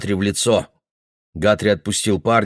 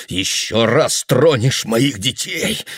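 threatening; 3 semitones higher, slower than usual. Acted. Guthrie pins the boy.

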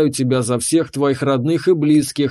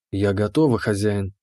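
lower, purring servant voice; purring keeper; 5 semitones lower than usual. Acted. The keeper answers her master in a low purr. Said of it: "мурлычащий голос хранительницы".

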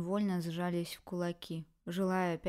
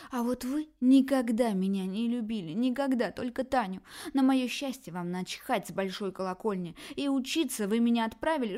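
louder, higher furious shouting; uncontrolled fury; 4 semitones higher, 5 dB louder than usual. Acted. Daughter screams her love at her parents, furious. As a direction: lose control with rage. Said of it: "в неконтролируемом приступе злости".

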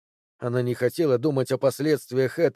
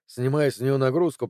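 usual speaking voice

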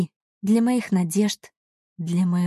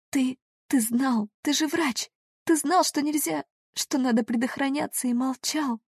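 wounded accusation pitched much higher; accusing, high; 6 semitones higher than usual. A narrator's reading. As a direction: accuse him, voice climbing high.

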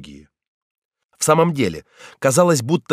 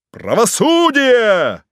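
higher, louder, slow shout; crowd shout; 9 semitones higher, 4 dB louder, much slower than usual. A narrator's reading. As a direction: cry it out like a rising mob. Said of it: "постепенно усилившийся до крика".

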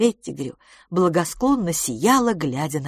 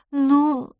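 cautious; 9 semitones higher, 4 dB louder than usual. Acted. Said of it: "осторожно сказала мисс Дюбари".

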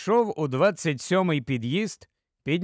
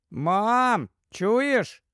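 put-on higher-pitched child butting in; little boy's voice; 5 semitones higher than usual. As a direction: lightly voice a boy calling mum. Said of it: "знову втрутився до розмови Пітер". (тонкий голос хлопчика)

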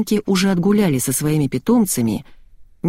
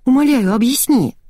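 pleading; 8 semitones higher, 4 dB louder than usual. A narrator's reading. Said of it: "вцепилась в меня Лидочка".

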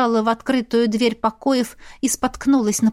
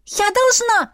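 frantic; 11 semitones higher than usual. Acted. Struggling against Irvin.

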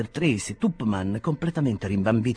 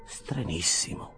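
puzzled; 3 semitones lower, 6 dB quieter, slower than usual. Acted. Winkle puzzled.

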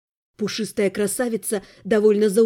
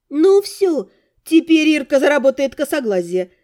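teasing jab; 2 semitones higher, 4 dB louder than usual. Acted. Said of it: "припечатала Наталья".

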